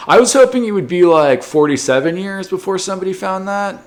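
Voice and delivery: amused high-pitched laughing aside. Real, not acted. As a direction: laugh through the complaint.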